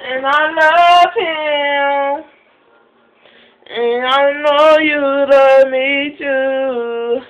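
slow, tender words to her puppy; lovingly, slowly, to the dog. Real, not acted. Owner talking to her puppy.

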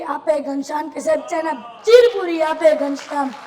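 chanting each poem line twice to the crowd; lilting folk recital, addressing sir; dayro poem recital. Acted. Folk poet reciting verses to a live audience, lilting chant.

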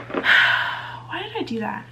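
slow, breathy half-whispered regret; regretful sigh. Real, not acted. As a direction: sigh it out, asking yourself why. Sighing regret over her own choices.

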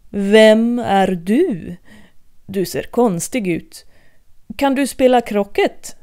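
lightly voiced haughty queen; imperious queen. Queen of Hearts questioning Alice, haughty and slow.

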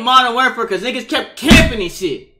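hoarse, cracking voice from yelling; cracked voice. Real, not acted. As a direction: talk with a strained, cracked voice. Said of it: "my voice cracked because I was yelling".

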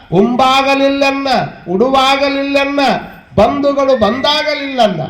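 slow, drawn-out sacred verse; measured scripture quoting; verse recitation. Acted. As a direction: recite each line slowly with long vowels.

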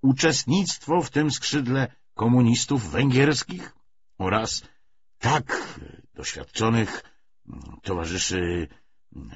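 measured, emphatic political lecture; lightly voiced party orator. Commissar lectures comrades on the coming victory, mildly oratorical. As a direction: stress key words like a lecturer.

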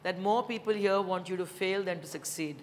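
deliberate, emphatic formal reading; reading a letter aloud. Acted. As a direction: read out a father's written advice with weight. Reads father's written words aloud.

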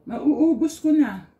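talking while chewing; eating sausage while speaking; mouth full. Real, not acted. Seen 1: Cheeks full, mouth working mid-meal; sausage piece held in hand.

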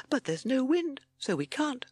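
high-pitched timid toad. A narrator's reading. Timid Toad objecting to the chase, high voice. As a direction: pipe up doubtfully. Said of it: "said timid Toad".

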